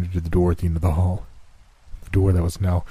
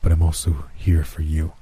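lower, measured voice of Death; Death's voice; 3 semitones lower than usual. Acted. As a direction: speak as calm, cold Death. Death speaks.

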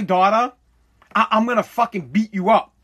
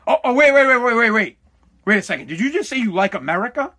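hammed-up mock panic. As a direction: fake a melodramatic breakdown. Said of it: "mocking the league's outrage".

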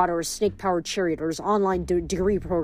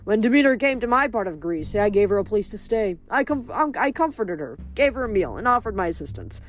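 smug farm god; 2 semitones higher than usual. Acted. Farm god scolding Frank, lightly voiced and haughty. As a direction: scold him like a fussy minor god. Trip tells his story.

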